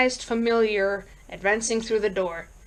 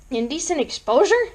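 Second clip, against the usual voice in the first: higher-pitched, rising query; questioning repeat; 6 semitones higher than usual. Acted. Police sergeant repeating the caller's complaint back, questioning repeat. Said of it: "Sergeant Howe repeated".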